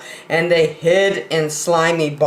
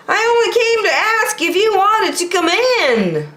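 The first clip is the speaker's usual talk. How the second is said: much higher cartoon buffalo voice; Boris Buffalo voice. Boris Buffalo greeting startled Bear, high character voice.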